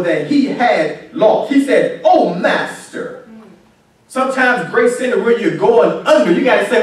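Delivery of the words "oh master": drawn-out, restrained lament; retold agonized cry. Preacher voicing the grieving servant, a drawn-out mild cry. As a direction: stretch the plea out slowly. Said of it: "He cried out in agony".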